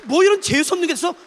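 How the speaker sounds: a disgusted grumble; annoyed Satan. Acted. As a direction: spit it out in disgust. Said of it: "그러면 사단이". (짜증 난 사탄의 투덜거림)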